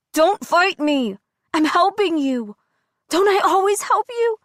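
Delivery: high, pressing alter ego voice; controlling inner voice. A narrator's reading. Jocelyn pressing Adira to obey, high and insistent. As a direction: coax her, then demand.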